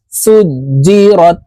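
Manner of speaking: "সুজিরত" slowly, each jazm letter joined to the vowel before it. Shown as a demonstration. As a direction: say "সুজিরত" drawn out, closing রত in one beat. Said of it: "পূর্বের হরকতওয়ালা হরফের সঙ্গে একবার উচ্চারণ হবে". ("সুজিরত" টেনে, জজমওয়ালা হরফ আগের হরফের সঙ্গে মিলিয়ে)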